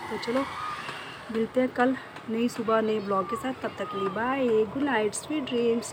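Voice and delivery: a blogger's upbeat goodnight to her viewers; cheery sign-off. Real, not acted. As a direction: lift up and wave them off with energy.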